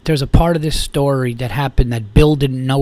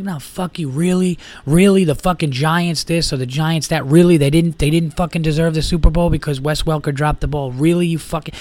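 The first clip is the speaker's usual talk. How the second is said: retold bar-argument indignation; heated argument; 2 semitones higher than usual. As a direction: argue back in bursts, punching the challenges. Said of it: "fucking heated argument about sports".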